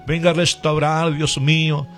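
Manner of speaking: earnest, rhythmic intercession in short phrases; fervent prayer. Real, not acted. Radio preacher praying for the sick, fervent prayer. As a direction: plead with God in a steady, insistent cadence.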